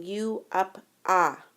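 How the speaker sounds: U said as a short "uh", as in "up", then "ah", slowly; short u sound. Shown as a demonstration. Teacher sounding out the short U for students, slowly and clearly. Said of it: "It's saying".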